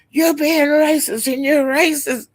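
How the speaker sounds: high put-on voice of the guy; quoting the guy. Retelling the guy accusing Rick, high mock voice. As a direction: raise the voice to play the accuser. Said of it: "the guy kept saying".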